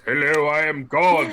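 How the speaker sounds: a comic booming deity greeting; God. Acted. Imitating Monty Python's cartoon God, mock-grand voice. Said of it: "So you always imagine this".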